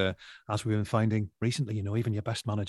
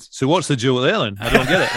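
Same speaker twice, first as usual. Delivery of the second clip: Alan Hansen; 3 semitones higher, 9 dB louder than usual. Retold or imitated. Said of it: "he said".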